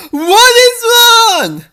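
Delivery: high, loud, slow alarmed question; urgent shout. Acted. Niall rushes in and urgently asks what is wrong. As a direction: call out urgently as you burst in. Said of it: "Niall rushes in".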